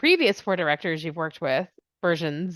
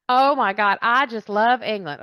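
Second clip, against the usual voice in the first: mock gushing; 2 semitones higher, 4 dB louder than usual. Mimics gushing admirers of her accent.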